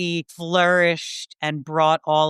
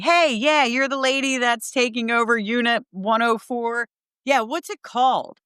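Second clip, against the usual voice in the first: groundskeeper voice; 6 semitones higher than usual. Retold or imitated. Groundskeeper on the phone.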